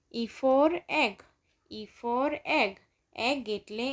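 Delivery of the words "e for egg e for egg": very slow, each word drawn out; slow phonics drill. Shown as a demonstration. Teacher to children, slow and drawn out. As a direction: spell it out slowly for young learners. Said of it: "teacher drilling the letter E".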